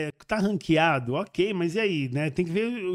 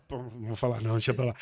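trailing off; 6 semitones lower, 7 dB quieter than usual. Real, not acted. Drops a remark he won't finish.

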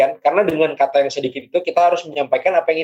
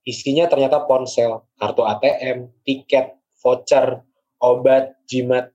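poem reading. Acted. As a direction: savor each listed item.

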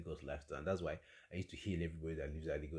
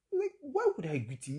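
outraged; 7 dB louder than usual. Real, not acted. Outraged at the question.

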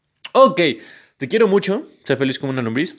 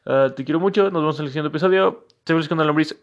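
higher, louder cheerful sign-off; brighter goodbye; 5 semitones higher, 3 dB louder than usual. Acted. Signing off to listeners, louder and higher. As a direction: say the goodbye with a lift.

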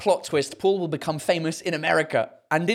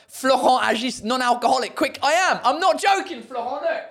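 higher, louder protest; teasing a viewer, pitched up; playful insisting; 7 semitones higher, 3 dB louder than usual. Real, not acted. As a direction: convince him it's true.

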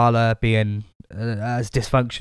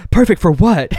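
laughing quote; 6 semitones higher, 6 dB louder than usual. Retold or imitated. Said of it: "J D just goes".

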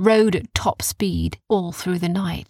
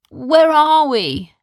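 confused waking; 8 semitones higher, 6 dB louder, slower than usual. Acted.

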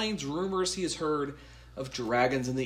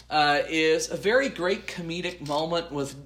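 normal talking voice

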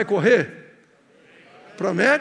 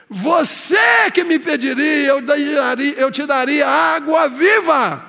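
emphatic promise; 4 dB louder, slower than usual. Acted. Jesus promises living water.

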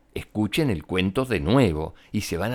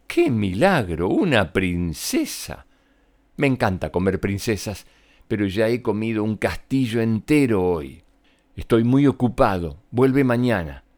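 a lightly voiced greedy dragon, bored and busy. (dragón perezoso, con voz ligeramente actuada)

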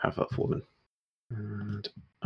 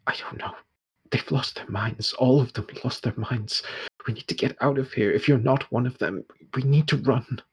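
frightened woman, growing more urgent; terrified; 2 semitones higher than usual. Acted. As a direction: plead urgently, acting mildly scared. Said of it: "absolutely terrified and just goes".

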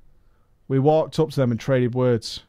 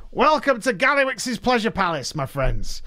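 higher, showy goblin host; goblin accent; 9 semitones higher than usual. Acted. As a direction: greet them like a grand goblin showman, pitched up. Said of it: "I can't do a goblin accent".

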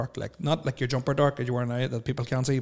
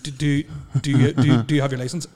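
stuttering; 4 dB louder than usual. Retold or imitated. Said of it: "they're like".

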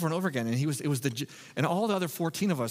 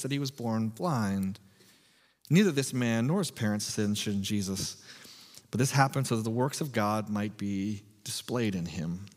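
scripture reading. Real, not acted. Reads scripture aloud.

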